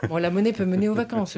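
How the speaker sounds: chuckling through the words; laughing. Real, not acted. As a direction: say it while laughing. Laughs at the holiday guess.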